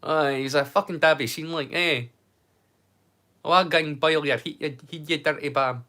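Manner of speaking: broad Scottish street insults; Scottish accent. Shown as a demonstration. Streamer demonstrates the poetry of swearing in a Scottish accent. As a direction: say it in thick Scottish. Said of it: "when you say it in the Scottish".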